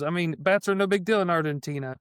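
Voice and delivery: half-hearted attempt at an Argentinian accent; botched Argentinian accent. Podcast host quoting a hilarious Manu, poor Argentinian accent. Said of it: "I can't do the accent".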